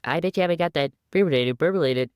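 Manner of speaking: squeaky boastful little mouse; high, fast cartoon mouse voice. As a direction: rattle it off high and quick. Quoting Blabbermouse's boast.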